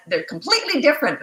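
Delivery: lightly mocking quote, swooping high; mimicked objection. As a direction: imitate a know-it-all objector, pitch jumping up. Mimics someone correcting her.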